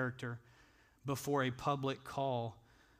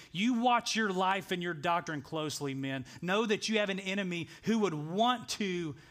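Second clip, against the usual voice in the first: earnest, higher-pitched charge to the men; solemn charge pressed home with raised pitch; serious warning; 5 semitones higher, 3 dB louder than usual. Acted. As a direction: warn them urgently, voice lifted. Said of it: "were so serious to say".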